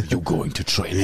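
put-on mom's thick German accent. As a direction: bark it like a strict German mom. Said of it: "in that crazy German accent".

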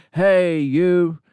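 mock him with a muddled accent; half-hearted unplaceable accent for Depp; vague mock accent. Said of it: "Not really sure what his accent is".

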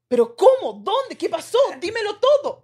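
eager gossip. Retold or imitated. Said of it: "Y ahí quedó".

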